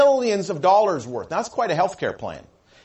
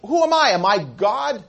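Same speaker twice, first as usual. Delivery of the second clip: angry king; 3 semitones higher, 4 dB louder than usual. Retold or imitated. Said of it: "He's angry".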